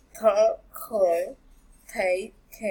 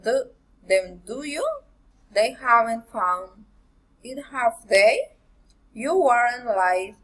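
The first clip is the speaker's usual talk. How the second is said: statement, short pause, then "do you" lifts; teacher's model tag questions, pausing before "do you"; tag question intonation. Shown as a demonstration. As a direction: separate the tag, gliding up on "have they" and "were you". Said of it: "failing or rising intonation".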